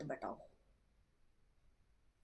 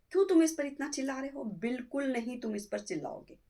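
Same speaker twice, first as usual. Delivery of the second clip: scolding mother; 5 semitones higher, 4 dB louder than usual. Acted. Mother-in-law scolds son.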